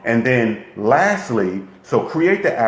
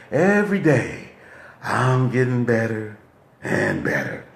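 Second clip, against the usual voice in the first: unconvincing. Shown as a demonstration. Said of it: "did you believe that? 'Cause I didn't".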